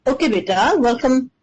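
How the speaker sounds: talking around ice cubes; ice in mouth. Real, not acted. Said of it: "I have ice in my mouth".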